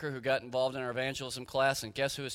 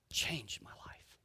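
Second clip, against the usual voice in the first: slow hushed whisper of the phrase; whispered echo; 2 semitones lower, 10 dB quieter, much slower than usual. Shown as a demonstration. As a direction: breathe it out like a secret awe. Echo of previous line, whispered.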